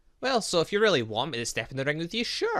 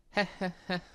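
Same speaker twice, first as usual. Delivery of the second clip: evil chuckle; 6 semitones higher, faster than usual. Acted. Smug laugh after a reveal.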